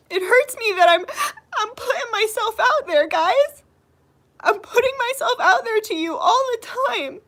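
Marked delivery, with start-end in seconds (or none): 0.1-6.2 crying. Real, not acted. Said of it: "That's why I'm crying right now".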